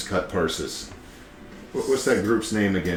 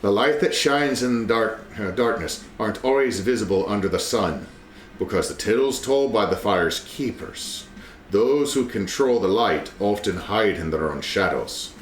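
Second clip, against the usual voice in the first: in-character reading. Acted. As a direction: read it like an ominous prophecy. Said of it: "In, in character".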